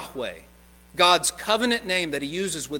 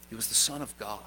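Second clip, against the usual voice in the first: soft, low reverent statement; hushed solemn declaration; 6 semitones lower, 9 dB quieter, faster than usual. Real, not acted. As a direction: lower the voice in awe. Climactic solemn line.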